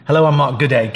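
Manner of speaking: put-on amateur British accent, bordering on Aussie. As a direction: imitate a British scholar introducing himself. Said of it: "I'll do my best British accent".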